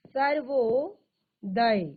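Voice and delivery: सर्वोदय drawn out very slowly; slow teacher repeat of सर्वोदय. Shown as a demonstration. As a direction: stretch every syllable of सर्वोदय. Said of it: "repeated slowly for the class".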